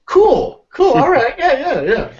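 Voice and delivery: high, airy mock-indifferent cool; lightly hammed shrug of a reply; bored bandmates. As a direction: brush it off like an unbothered bandmate. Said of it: "everyone goes".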